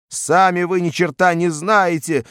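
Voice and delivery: whimpering. A narrator's reading. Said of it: "захныкал Харюзин".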